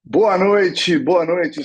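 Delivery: loud, high, showman's hello; big stage greeting. Real, not acted. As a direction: greet the crowd like you just walked on stage. Speaker's loud opening greeting on stage. (saudação animada de palco)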